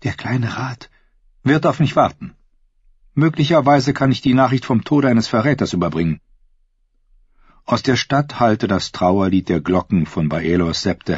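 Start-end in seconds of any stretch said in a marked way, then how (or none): 0.0-6.2 higher, measured courtier voice; smooth courtly advisor voice. A narrator's reading. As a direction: speak like a silky royal advisor.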